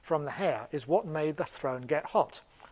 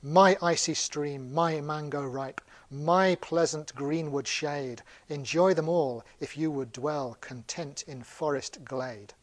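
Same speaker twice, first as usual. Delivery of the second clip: slow, measured verse reading; unhurried lyrical recital; poem recitation; slower than usual. Acted. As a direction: recite with drawn-out, lingering words. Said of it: "this is the monkey's poem".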